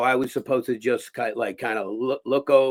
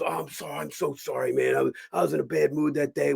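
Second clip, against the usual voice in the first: apologetic; 3 semitones higher, 3 dB quieter than usual. Retold or imitated. Acts out the actor apologizing.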